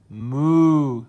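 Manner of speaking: a loud, hammed-up moo; cow moo. Monster cow moos at the tent, hammed-up and loud.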